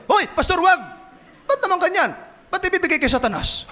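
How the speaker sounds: high, startled, half laughing cry; alarmed protest. Retold or imitated. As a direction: panic at the threat. Alarmed elder protests pastor. (gulat na pagtutol, mataas ang boses)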